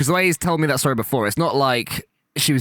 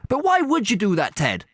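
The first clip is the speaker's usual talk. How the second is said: much higher, innocent puzzled voice; high naive Irish-priest voice; Dougal; 9 semitones higher than usual. Retold or imitated. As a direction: play the clueless sidekick. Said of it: "And then Dougal goes".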